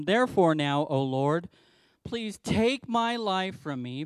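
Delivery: a sulking prophet complaining to God; bitter prayer. Retold or imitated. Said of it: "he prayed to the Lord and said".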